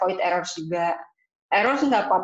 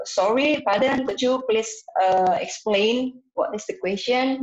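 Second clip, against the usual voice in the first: polite test-taker; 2 semitones higher than usual. Shown as a demonstration. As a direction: sound like a polite student asking again. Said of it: "Misalnya kayak gitu".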